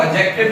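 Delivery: एडजेक्टिव said "ajective", D dropped; silent D. Shown as a demonstration. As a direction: go straight to the J in एडजेक्टिव, no D. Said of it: "डी silent कर देते हैं".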